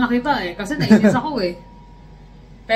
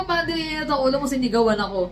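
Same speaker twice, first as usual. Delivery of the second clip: indignant retort; 6 semitones higher than usual. Retold or imitated. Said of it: "Sabi ko".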